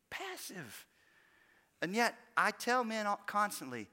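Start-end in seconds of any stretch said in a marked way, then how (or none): 0.1-0.9 hushed second Passive; quiet echo. Shown as a demonstration. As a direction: let Passive fall away softly.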